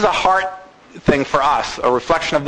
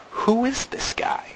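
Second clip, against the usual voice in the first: whispered; 6 semitones higher, 8 dB quieter than usual. Acted. Rhetorical question, whispered.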